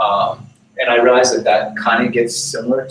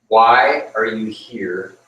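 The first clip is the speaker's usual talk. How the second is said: slow, measured call out of the darkness; mysterious voice in the dark; 3 dB louder, much slower than usual. Retold or imitated. Unseen voice challenges the wandering rabbi, slow and grave. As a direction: ask it slowly, like an unseen voice.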